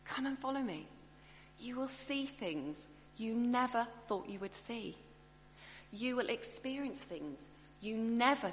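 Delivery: gentle, unhurried invitation with promise; warm inviting Jesus. Retold or imitated. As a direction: coax him along tenderly. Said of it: "I reckon it was more like that".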